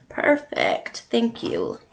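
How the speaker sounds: bright, pleased "Perfect"; delighted little exclamation; excited. Real, not acted. Reacting to a viewer's dot.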